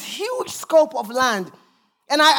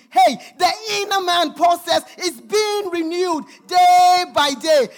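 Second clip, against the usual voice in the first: preaching at full force; 5 semitones higher than usual. Real, not acted. Preacher rising to a climax.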